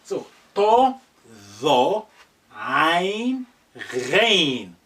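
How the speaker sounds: tho then ein, rein said loud and clear; Arabic letter demo. Shown as a demonstration. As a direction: model each sound for the class.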